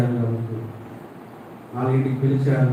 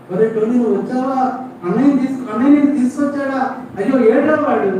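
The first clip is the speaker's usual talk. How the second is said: eager father; 10 semitones higher, 4 dB louder than usual. Acted. Father surprised to see son.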